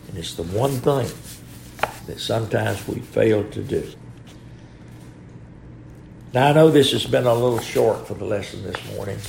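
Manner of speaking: blocked nose, stuffed-up speech; nose packed with gauze. Real, not acted. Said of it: "hard for me to speak with this, some of this packing in my nose".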